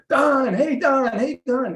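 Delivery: cheery greetings. Retold or imitated. Coworkers calling out to Don across the hallway, cheery shouts. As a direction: call out his name like an old friend.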